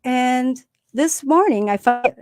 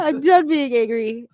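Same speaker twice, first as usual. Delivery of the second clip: slow, higher-pitched repeat; drawn-out mock exasperation; 4 semitones higher, 3 dB louder than usual. Mom repeating her answer to daughter, mock exasperation.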